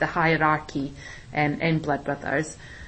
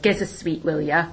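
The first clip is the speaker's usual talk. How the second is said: put-on Liverpool accent. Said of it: "in a Liverpool accent, not my accent".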